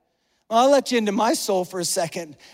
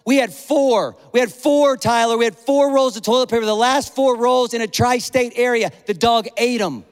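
louder, emphatic comic outrage; exasperated rant; 5 dB louder than usual. Real, not acted. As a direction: hammer the count in mock-outraged disbelief. Comic rant about dog eating toilet paper.

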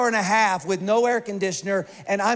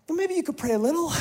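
higher, quick sarcastic jab; mock snippy; 8 semitones higher, faster than usual. Panicking husband snapping back at his wife, quick and sarcastic. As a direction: toss it off fast and pointed.

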